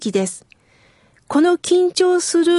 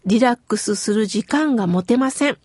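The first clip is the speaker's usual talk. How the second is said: usual speaking voice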